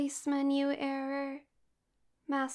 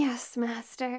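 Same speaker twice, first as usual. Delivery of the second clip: breathy, eager yes; seductive voice; 2 semitones lower than usual. Acted. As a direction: moan it lustfully. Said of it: "Seductive voice activated".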